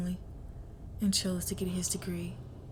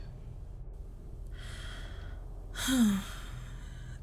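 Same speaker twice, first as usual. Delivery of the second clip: breathy sigh; 2 semitones higher, 5 dB quieter than usual. Acted. Killer pausing over her honor.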